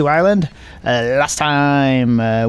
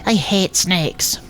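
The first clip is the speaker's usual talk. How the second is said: put-on a higher, halting Scottish accent, scared of the snake; 5 semitones higher, slower than usual. Akira cowering from the snake, in a shaky-voiced Scottish accent. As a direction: stammer it out in a put-on Scottish lilt. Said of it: "Scottish accent".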